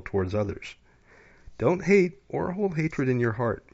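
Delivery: measured, solemn card reading; oracle card reading. Acted. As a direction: read it like a calm inspirational oracle. Reads an oracle card aloud.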